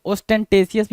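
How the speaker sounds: ostentatious as os-ten-tay-si-us; a clear t in ostentatious, "ten-tay"; "-tesious" pronunciation. Shown as a demonstration. Teacher allows students this reading, ostentatious as os-ten-tay-si-us. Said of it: "भी पढ़ लें आप इसको".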